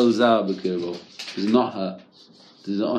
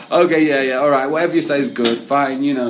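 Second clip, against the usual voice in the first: loud, fast, brushing-off yeahs; grudging fake agreement; 3 semitones higher, 5 dB louder than usual. Husband brushing off his angry wife, grudging loud agreement. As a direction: agree just to make her stop. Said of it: "leave me alone sort of fine".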